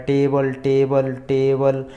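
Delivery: टेबल repeated evenly, each opening on a hard T; pronunciation demo. Shown as a demonstration. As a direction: repeat टेबल as a teacher's model. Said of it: "उच्चारण इसका हो रहा है".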